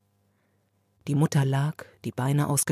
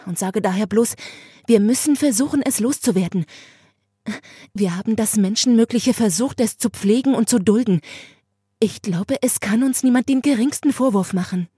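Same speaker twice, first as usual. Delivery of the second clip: raised, higher insistent sister voice; firm pleading sister; 4 semitones higher, 4 dB louder than usual. Acted. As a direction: press the parents hard, voice up. Sister's firm speech to parents.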